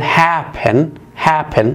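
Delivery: happen with quick clipped last syllable; stress on first syllable. Shown as a demonstration. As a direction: say happen with the end quick and light. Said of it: "تنطق بشكل سريع وخاطف".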